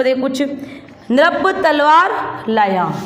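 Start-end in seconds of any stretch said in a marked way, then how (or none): 1.1-2.9 very slow, clear syllables; slow model reading. Shown as a demonstration. Teacher dictating a sentence, slow and clear. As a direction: read it slowly for the class. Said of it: "और शब्द लिखवाती हूँ मैं आपको".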